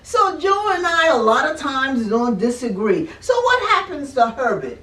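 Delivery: chuckling through the words; amused, laughing along; laughing while talking. Real, not acted. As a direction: laugh it out as you explain. Laughing at own hand story.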